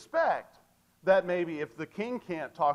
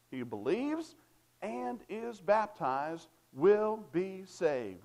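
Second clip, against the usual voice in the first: slow, deliberate; 2 semitones higher, slower than usual. Shown as a demonstration. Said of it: "is there another way I can say it?".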